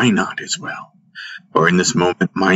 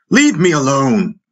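high, falling cry to be let go; struggling scream; 7 semitones higher than usual. A narrator's reading. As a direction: cry out high as if fighting free. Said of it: "kicked, screamed".

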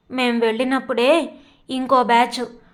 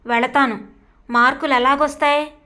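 a touch of stubborn defiance; mildly headstrong comeback; stubbornly. Acted. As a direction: dig in your heels, lightly. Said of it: "అంది ఇందిర పెంకెగా".

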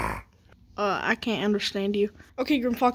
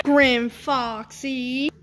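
slow shout; much slower than usual. Acted. Calling out the fox.

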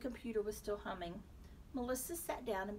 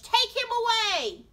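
loud, drawn-out order; thundering judge; 13 semitones higher, 16 dB louder than usual. A narrator's reading. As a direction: bellow the command across the courtroom. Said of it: "thundered the judge".

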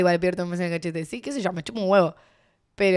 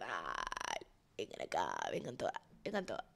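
low mock call; 19 dB quieter than usual. Voices girl calling friends.

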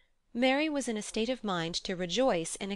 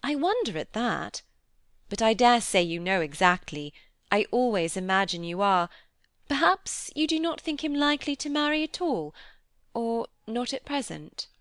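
louder, lively character voice, lifting high; probing, animated lady; 4 semitones higher, 6 dB louder than usual. Acted. Miss Crawford questioning Fanny about marriage, eager and probing. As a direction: speculate pointedly to draw her out.

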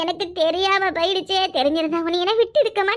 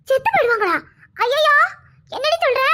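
panicked cry; 5 semitones higher, 4 dB louder than usual. Acted. Learns poison kills.

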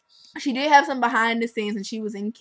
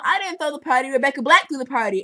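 higher, whiny mock protest; protesting Katie; 5 semitones higher, 4 dB louder, faster than usual. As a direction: plead innocence like a teen. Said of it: "Katie tries to tell them".

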